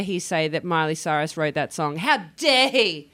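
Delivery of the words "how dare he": slow, indignant repeat. Real, not acted. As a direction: drag out the outrage. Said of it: "Seems like you're a bit angry".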